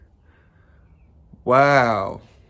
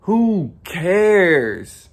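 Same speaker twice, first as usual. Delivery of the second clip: louder, higher who cares thrown out; emphatic; 6 semitones higher, 6 dB louder than usual. Pretend. Vlogger telling viewers to ignore their flaws, loud. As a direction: shout it off like you mean it. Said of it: "Or I could be like".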